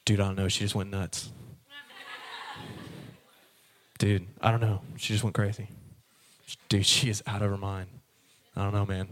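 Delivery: low, mumbled dude voice; a shrugging guy who has no idea; mock bro voice telling why they broke up; clueless guy. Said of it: "why'd you break up".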